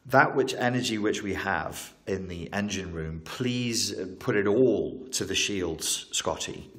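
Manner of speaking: halting starship captain impression, only lightly put on; Captain Kirk. Captain asks his engineer for shield power, light impression. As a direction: lightly mimic a captain's measured, broken-up order. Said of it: "that's my Captain Kirk impression".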